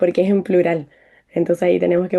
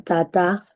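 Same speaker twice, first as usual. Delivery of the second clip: "tata" con acento en la última A, taTÁ. Shown as a demonstration. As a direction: carga la segunda sílaba de "tata". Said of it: "con el acento siempre en la última". ("tata" como palabra aguda, taTÁ)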